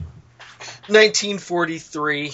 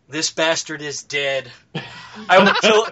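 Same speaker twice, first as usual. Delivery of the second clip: imitated Indian accent. Retelling a funny gameplay link, imitated Indian accent. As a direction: mimic a gamer's threat in an Indian accent. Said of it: "Screaming in an Indian accent".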